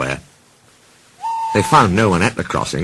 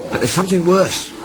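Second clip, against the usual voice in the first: worried Toby voice; 11 semitones higher than usual. Acted. Toby hints at trouble.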